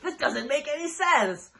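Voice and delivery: high, whiny mock complaint; mocking the trolls. Mocking Twitter trolls who doubt the match, high whiny voice. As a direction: sneer it like a know-it-all troll. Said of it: "idiot trolls on Twitter were like".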